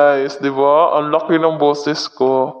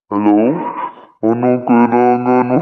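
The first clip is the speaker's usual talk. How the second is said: monster voice effect; 3 semitones lower than usual. Shown as a demonstration. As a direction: lower monster voice filter. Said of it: "Di ba, monster yung boses mo?".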